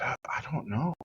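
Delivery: hesitant near-whisper; timid answer. Retold or imitated. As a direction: answer in a small, whispered stammer. Teen's timid answer to teacher.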